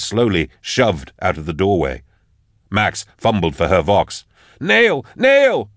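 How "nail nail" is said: high-pitched yell for help; desperate yell. A narrator's reading. Max calls for Nail over the vox, desperate yell. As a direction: yell the name out in alarm. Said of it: "she yelled".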